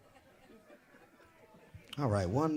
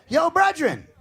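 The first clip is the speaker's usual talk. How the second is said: loud, high Jamaican holler; Jamaican call; 9 semitones higher, 8 dB louder than usual. Retold or imitated. Jamaican man calling the comedian on the train, loud and high. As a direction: shout brethren across the train like a Jamaican yardie. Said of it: "I hear".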